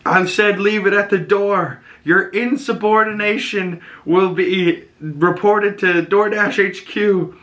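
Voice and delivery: high put-on Russian dad voice; Alexei voice. Quoting Alexei in his voice.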